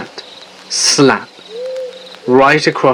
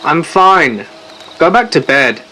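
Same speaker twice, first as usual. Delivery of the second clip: yelling out; 4 semitones higher than usual. Retold or imitated. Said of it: "by yelling out into the night".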